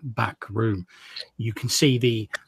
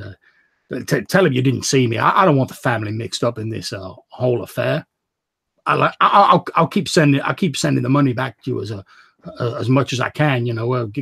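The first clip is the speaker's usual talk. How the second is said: put-on anxious young man, louder and urgent; pleading brother; 4 dB louder than usual. Edgar urging his sister to leave town, louder anxious plea. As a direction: beg her to go home, voice straining.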